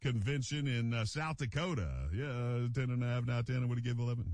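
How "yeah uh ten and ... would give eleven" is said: rapid auction-style number calling; auctioneer. Shown as a demonstration. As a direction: call bids like a livestock auctioneer. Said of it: "That's kinda my auctioneer voice".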